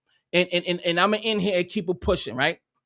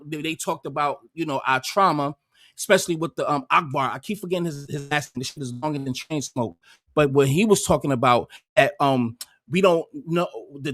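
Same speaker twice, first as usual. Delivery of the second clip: paraphrasing Godfrey; 4 semitones lower than usual. Retold or imitated. Summing up Godfrey's live stream, lightly imitated lower. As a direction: lightly voice his argument in a lower register. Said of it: "one of the first things he says is".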